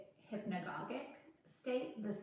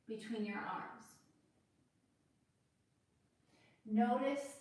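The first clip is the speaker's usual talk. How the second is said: unhurried yoga cueing with long pauses; guided yoga instruction. Acted. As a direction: guide the class gently through the pose, leaving space to breathe. Leads a yoga practice.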